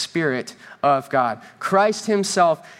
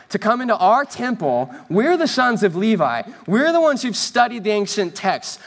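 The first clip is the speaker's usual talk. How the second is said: higher-pitched, affronted questioning of an upstart; indignant challenge; 3 semitones higher than usual. Acted. Jewish leaders demand Jesus prove his authority, indignant challenge. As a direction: challenge his right to be here. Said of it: "This is the ultimate Jewish".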